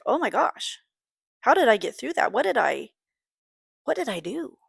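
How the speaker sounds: retold wonder, high swooping pitch; amazed disbelief. Mother thinking back on hard times, amazed disbelief. Acting out amazed reaction to memories.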